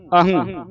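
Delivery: ਅਹੰ with a nasal ending, "ahang"; demonstrated reading. Shown as a demonstration. Teacher showing students the reading, ਅਹੰ ending nasally. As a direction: say ਅਹੰ closing on "ng". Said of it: "ਇਸ ਤਰ੍ਹਾਂ ਪੜ੍ਹਨਾ".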